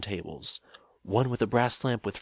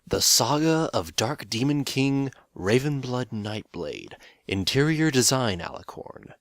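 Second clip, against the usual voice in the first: higher and louder, announced like an epic; grand mock title; 5 semitones higher, 4 dB louder than usual. Reading an absurd fanfic title to viewers, mock grand.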